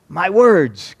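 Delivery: imitated pulpit phrase, falling at the end; mock pastor finishing his phrase; preacher's pronouncement. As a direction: deliver it as a measured sermon line. Pastor resumes after long pause.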